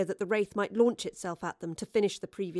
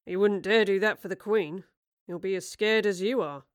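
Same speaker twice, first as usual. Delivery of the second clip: stern; 3 dB louder than usual. Acted. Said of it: "said sternly".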